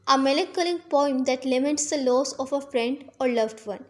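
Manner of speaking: very slow, evenly spaced definition; slow dictation. Shown as a demonstration. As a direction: read it slowly so students can write. Reading out a definition slowly. (धीरे-धीरे परिभाषा लिखवाना)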